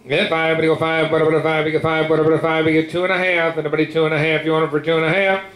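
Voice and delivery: rapid rolling bid chant; auctioneer. Real, not acted. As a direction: rattle off the bids like an auctioneer.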